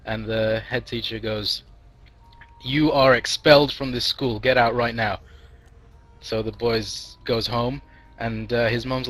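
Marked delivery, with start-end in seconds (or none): 2.6-5.2 emphatic, mildly angry order; mock stern expulsion. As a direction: lay down the sentence like an outraged head teacher. Head teacher expels the boy.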